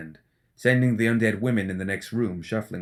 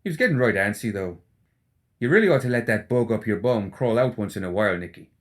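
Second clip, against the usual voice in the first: teasing rogue, a bit louder; Seamus, mocking; 3 dB louder than usual. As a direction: needle his grumpy friend, cheeky. Seamus voiced by narrator.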